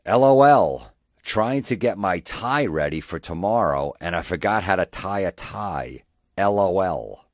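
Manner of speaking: mock-silly post reading. Shown as a demonstration. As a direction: read the post like a dumb laughing guy. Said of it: "one more time".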